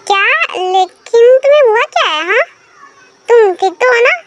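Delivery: a hint of a worried bride; worried wife voice. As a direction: ask him anxiously what happened. Narrator voices worried Tae.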